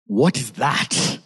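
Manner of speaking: slow, halting disbelief; amazed onlookers. Acted. Preacher voicing onlookers who saw demons cast out, slow amazement. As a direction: draw it out in astonishment. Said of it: "they saw that and they were like".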